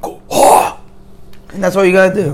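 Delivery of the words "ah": short scream. Shown as a demonstration. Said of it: "don't scream so loud and scare people".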